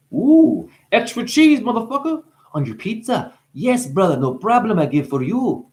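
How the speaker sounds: high, loud goofy hype voice; silly voice. Pretend. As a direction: ham it up like a goofy pizza guy. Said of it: "I'm being silly".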